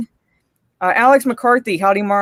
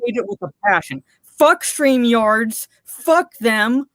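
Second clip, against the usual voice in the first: fed-up swearing rant; real rant; 3 semitones higher than usual. Real, not acted. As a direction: vent the frustration, spitting each curse. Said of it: "Yes, I'm ranting".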